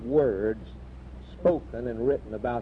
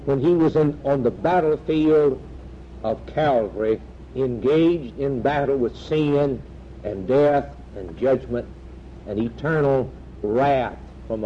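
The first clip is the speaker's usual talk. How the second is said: preaching at full force; 3 dB louder than usual. Acted. Preacher warning his congregation, preaching at full force. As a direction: hammer home the redemption like a revival preacher.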